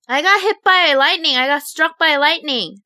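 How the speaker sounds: high, urgent announcement; insistent. Retold or imitated. Insisting to disbelieving parents.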